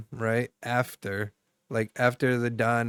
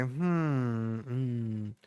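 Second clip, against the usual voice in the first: thinking hum; 6 dB quieter than usual. Shown as a demonstration. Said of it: "I like to say".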